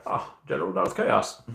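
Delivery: high put-on greeting voice; playful voice change. Streamer greeting Darth Chaos in chat, playful changed voice. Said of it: "Love the voice change".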